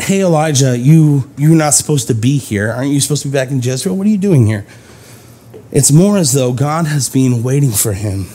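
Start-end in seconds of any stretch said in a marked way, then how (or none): 0.0-4.6 accusing. Shown as a demonstration. God scolding the prophet for being away, mock accusing. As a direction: scold him lightly like a truant. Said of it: "And this isn't".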